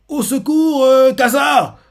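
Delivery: high, loud call for help; cry for help. Retold or imitated. Old man crying for help. (appel à l'aide, aigu et fort)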